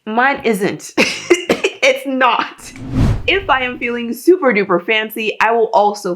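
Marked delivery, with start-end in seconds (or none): 1.0-1.8 high airy laugh. Real, not acted. Laughs at own routine.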